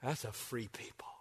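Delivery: sudden soft whisper after the shouting. Acted. Preacher hushing the congregation after the climax, whispered. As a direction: drop to a breathy hush to land it. Hushed payoff after the build.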